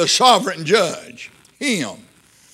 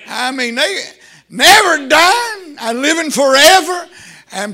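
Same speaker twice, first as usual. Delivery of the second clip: higher-pitched, exultant preacher's delivery; excited preaching; 4 semitones higher than usual. Real, not acted. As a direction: rouse the congregation over eternal life. Preacher exulting over eternal life.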